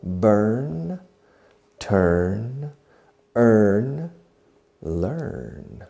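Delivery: "Burn, turn, earn, learn" with the same ER vowel; rhyming pronunciation demo. Shown as a demonstration. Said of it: "The pronunciation is the same".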